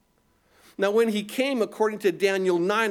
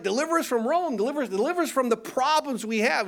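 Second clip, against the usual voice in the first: crowd begging for rescue, pitched higher; pleading crowd; 6 semitones higher, faster than usual. Retold or imitated. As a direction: beg like the crowd wanting Rome gone, higher and faster. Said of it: "They're like".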